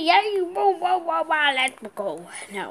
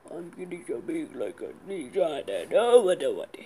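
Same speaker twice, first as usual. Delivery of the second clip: whisper; 5 semitones lower than usual. Real, not acted. Kid whispers to itself, unsure what to do. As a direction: whisper it to yourself. Muttering to self.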